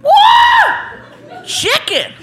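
put-on like a kid tearing open presents; giddy excitement. Mexican guest unpacking the gift basket, whooping with glee.

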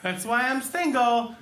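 mock coworker. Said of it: "overused the joke".

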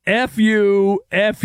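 stretched-out, half-hearted yell; retold yell. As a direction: imitate a yelling official without full volume.

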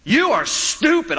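put-on high whiny child's voice, slow and drawn out; mock a small boy yelling at his mother; bratty kid yelling. Pastor imitates a kid at Walmart yelling at his mom, high and whiny. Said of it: "just yelling at his mom".

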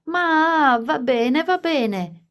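high, loud, slow shriek of protest. A narrator's reading. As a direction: squeal it out, giving in. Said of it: "finché Edward non strillò".

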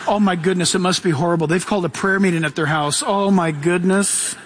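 low, hushed-up gossip concern; mock dismay. Religious people hearing of a prayer meeting, mock dismay. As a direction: play a scandalised churchgoer, pitched low.

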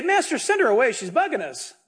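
annoyed disciples brushing her off; disciples complaining. Retold or imitated. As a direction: grumble that she's a nuisance. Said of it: "And the disciples say".

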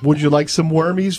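weird quail voice. Retold or imitated. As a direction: coo it like talking to a pet quail. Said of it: "I talk to her in a weird quail voice".

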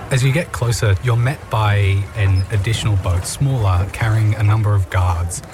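calm storytelling narration; game master scene setting. A narrator's reading. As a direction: set the scene like a DM.

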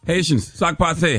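mock Creole. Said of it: "How you say treason in a Creole accent".

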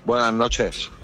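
worn-out, drained greeting; exhausted. Real, not acted. Greeting the radio hosts after the match, exhausted. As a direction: say hello as if utterly spent. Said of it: "exhausto, agotado".

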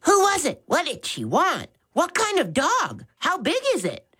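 high, eager, quick questions; children bursting with curiosity; rapid-fire questions. Acted. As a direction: pepper him with questions. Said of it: "rapidly fired questions at him".

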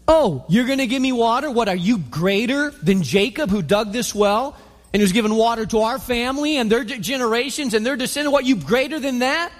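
scoffing, rising mock disbelief; mocking challenge. Woman mocks Jesus's offer of water, light sarcastic challenge. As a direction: needle him like he's full of himself, lightly played. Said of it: "She's got an attitude".

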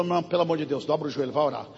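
soft, fast scolding; a brother quietly fed up with her; quiet exasperated scolding. Retold or imitated. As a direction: hiss at her to go pray and stop getting in the way.

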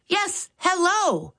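slow, high and careful yes, hello; slow down so she can follow. Acted. Max slows down for the hard-of-hearing caller. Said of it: "he responded a bit more slowly".

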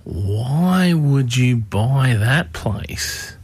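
slow, drawn-out disbelieving question; incredulous listener. Retold or imitated. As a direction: stretch it out as a baffled listener would. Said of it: "sure you're sitting at home going".

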